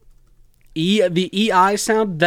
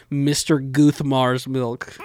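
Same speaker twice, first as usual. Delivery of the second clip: 1 punchline read; much slower than usual. Shown as a demonstration.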